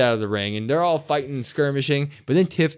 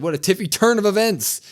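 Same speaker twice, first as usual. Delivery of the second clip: mock Tiffany quote; 7 semitones higher, 3 dB louder than usual. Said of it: "she said".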